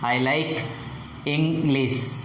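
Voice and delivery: "English" falls on its second syllable; falling tone. Shown as a demonstration. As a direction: drop the pitch on the end of "English". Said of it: "the pitch falls on the second syllable".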